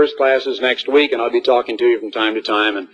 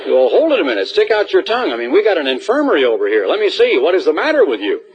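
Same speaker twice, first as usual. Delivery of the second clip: higher, teasing doctor-like questioning; hammed-up checkup of a gloomy student; mock concern; 6 semitones higher than usual. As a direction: play the fussy school nurse for laughs.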